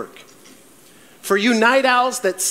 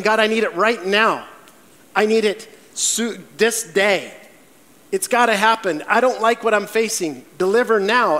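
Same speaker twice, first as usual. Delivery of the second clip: demanding prayer; 3 semitones higher than usual. Retold or imitated. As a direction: play the impatient believer insisting on it now. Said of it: "Or are you demanding".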